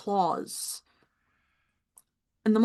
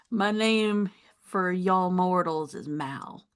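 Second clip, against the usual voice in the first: slow, calm voice of an ancient being; slow gentle monster voice; slower than usual. Acted. GM voices Mal.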